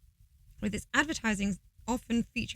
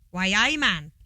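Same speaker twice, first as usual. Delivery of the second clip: Geordie phrase; 5 dB louder than usual. Retold or imitated. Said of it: "That's what they say".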